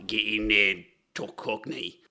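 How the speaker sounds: Cockney. Shown as a demonstration. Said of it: "Cockney, which would have been".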